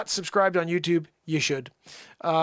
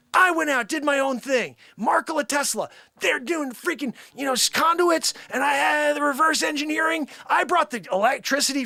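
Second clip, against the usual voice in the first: high, loud bragging character; boastful shout; 10 semitones higher, 5 dB louder than usual. Acted. Time traveller boasting to fans, loud and high. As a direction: crow about beating Edison.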